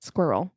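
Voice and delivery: Squirrel said the French way, soft and low; low, soft French-style Squirrel; French squirrel again. Retold or imitated. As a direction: mimic the French Squirrel quietly. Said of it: "That's how she said it".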